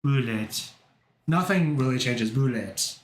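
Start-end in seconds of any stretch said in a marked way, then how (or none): 0.0-0.7 a mock French take on Bullet. Reading a word in a light mock French accent. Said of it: "put it into French Google Translate". 2.3-3.0 French bullet. Pretend. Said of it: "put it into French Google Translate".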